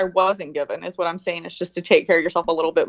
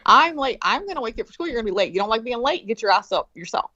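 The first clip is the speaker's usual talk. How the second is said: firm parent; 4 semitones higher than usual. Retold or imitated. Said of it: "told my kids".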